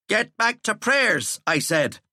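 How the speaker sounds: teacher ordering prefect away; stern command. Acted. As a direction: end the argument.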